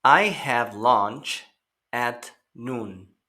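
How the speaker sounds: slow, careful echo of the sentence; slow teacher model; slow repeat for learners. Shown as a demonstration. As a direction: give the class a slow repetition. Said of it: "Recuerden escuchar y repetir".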